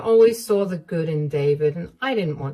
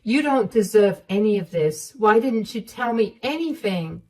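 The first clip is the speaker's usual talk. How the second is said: a touch higher, firm and kind; firm mother-in-law; 3 semitones higher, 3 dB louder than usual. Acted. Mother-in-law comforting Emma and condemning her son, firm. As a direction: reassure her, condemn him. Sarah scolds David, consoles.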